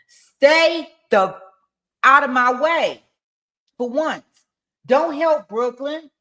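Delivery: emphatic, punchy reading of a telling-off; dramatised irritation. Acted. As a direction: read the texts out like a heated warning. Commentator acts out angry texts.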